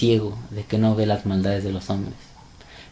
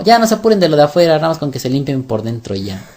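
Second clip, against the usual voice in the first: higher, hurried start, settling back; mock permissive quote; 4 semitones higher, 3 dB louder, faster than usual. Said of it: "O dijo".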